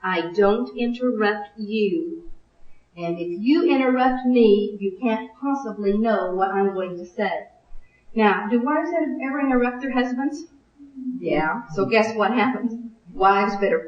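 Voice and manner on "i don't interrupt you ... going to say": calm and sweet. Shown as a demonstration. Wife answers interrupting husband without tears, calm and sweet. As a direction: say it sweetly, in a composed, unhurried voice. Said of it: "looking at him calmly and sweetly saying".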